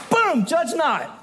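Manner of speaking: slow, smug and high "Boom, judge not"; smug comeback. Retold or imitated. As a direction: drop it like a mic, slow and pleased. Mocking the scripture-quoting comeback.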